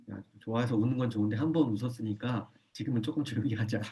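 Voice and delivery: soft calm request for quiet; gentle hush. Shown as a demonstration. Parent softly asking an excited child to be quiet. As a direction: gently settle them down.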